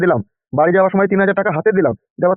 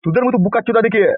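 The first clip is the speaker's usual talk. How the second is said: angry scolding; 5 semitones higher than usual. Acted. Boss berates his henchmen.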